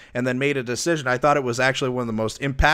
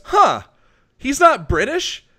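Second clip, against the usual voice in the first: high-pitched mock puzzled wife voice; mimicking wife; 14 semitones higher, 9 dB louder, slower than usual. Husband mimicking his wife mid-interview, high mock squeak. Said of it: "she goes".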